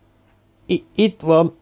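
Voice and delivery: slow, stammered groan. A narrator's reading. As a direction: groan it out haltingly in fear. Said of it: "nyögte Escobar". (akadozva kinyögött szavak)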